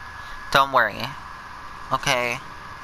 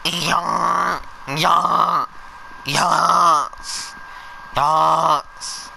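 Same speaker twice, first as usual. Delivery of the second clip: yasing; 4 semitones higher, much slower than usual. Real, not acted. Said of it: "Nobody likes your yasing".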